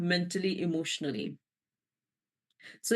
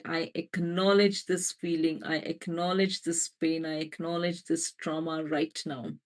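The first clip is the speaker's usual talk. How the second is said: gentle affirmation; 2 semitones lower than usual. Shown as a demonstration. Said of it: "Just gently say".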